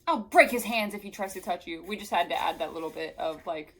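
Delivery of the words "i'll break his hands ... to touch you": loud hammed-up melodramatic villain-style declaiming; mocking over-the-top macho bluster; mock pompous hero. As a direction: declaim it like an outraged stage blowhard, pitch swooping up. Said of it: "Why does he talk like that?".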